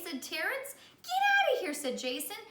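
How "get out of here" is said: much louder, rough push-off; loud child telling him to leave; kid shooing away. Acted. Jason chasing Ron away.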